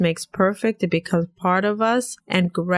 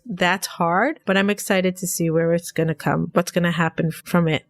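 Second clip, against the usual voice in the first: stuffy nose from a cold; nasal voice. Real, not acted. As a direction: talk through a blocked nose. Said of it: "Sorry about my nasal voice".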